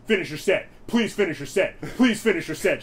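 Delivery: half-hearted yelling match; mild retold yell. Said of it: "we were just yelling at each other".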